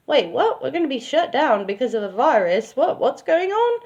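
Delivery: high, rising disbelief at the news; shocked disbelief. Retold or imitated. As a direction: blurt it out, caught off guard. Lex shocked at shutdown news.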